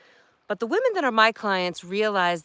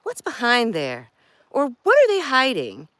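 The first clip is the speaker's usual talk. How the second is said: louder, higher nosy questions; curious viewer; 6 semitones higher, 5 dB louder than usual. Retold or imitated. Viewers wondering about a blurred background, mock nosy. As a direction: play a nosy viewer, lightly. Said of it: "people are always wondering".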